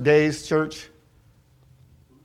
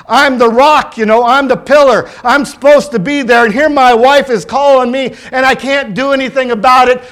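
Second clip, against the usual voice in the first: impassioned preaching; 3 semitones higher than usual. Real, not acted. Preaches his own helplessness as dad.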